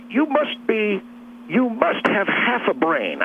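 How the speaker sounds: high, slow jab; exasperated insult. Retold or imitated. Telling off his brother-in-law in a retold quarrel, exasperated.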